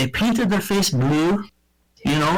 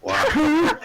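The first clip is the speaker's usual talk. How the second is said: laughing wow; 12 semitones higher than usual. Real, not acted. Reacts to the mom joke.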